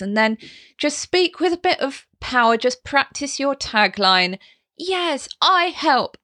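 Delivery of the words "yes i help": strong voice. Shown as a demonstration. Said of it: "using that sound".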